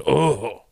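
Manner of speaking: drawn-out imitated groan; mock groan of concern; doctor's dismayed oh. Second doctor seeing the patient, imitated dismayed oh. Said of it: "who's the guy that goes".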